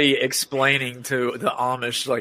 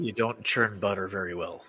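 Amish insult; 6 semitones lower, 8 dB quieter than usual. Pretend. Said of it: "how the Amish insult each other".

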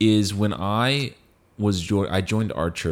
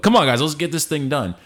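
rallying call; 6 semitones higher than usual. Retold or imitated. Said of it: "where I get people like".

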